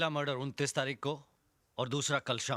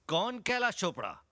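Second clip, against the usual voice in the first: raised-pitch sardonic echo; mocking echo; 4 semitones higher than usual. Inspector throws the suspect's question back, mocking.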